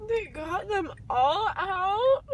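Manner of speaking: drowsy, close to tears; groggy teary question. Real, not acted. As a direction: ask it half crying after surgery. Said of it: "Are you crying?".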